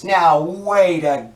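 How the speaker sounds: fed-up, rising indignation; exasperated outburst. Acted. Interviewer loses patience with the President.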